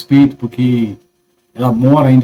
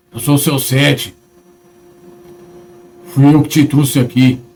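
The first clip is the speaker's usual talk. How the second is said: ugly otherworldly voice. Retelling what a possessed man said face to face: imitating the man's ugly spirit voice. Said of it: "A voz é feia".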